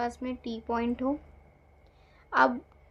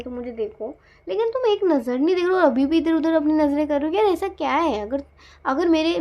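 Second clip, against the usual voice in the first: louder, pained pleading rant; loud exasperated complaint to the partner; hurt angry plea; 5 dB louder than usual. Acted. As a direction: pour out frustration at being ignored. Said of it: "तो कह रहे".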